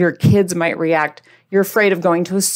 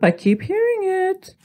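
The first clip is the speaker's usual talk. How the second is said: 1 mock exasperated; 10 semitones higher than usual. Real, not acted. Exasperated aside about yolo.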